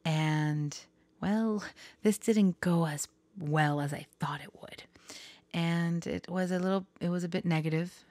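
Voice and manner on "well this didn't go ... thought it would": whisper. Real, not acted. Whispered confession to viewers.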